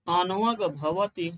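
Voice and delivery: slow, spaced-out dictation; slow recitation. Shown as a demonstration. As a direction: dictate it slowly while writing. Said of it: "ये संस्कृत में line बोल रहा हूं".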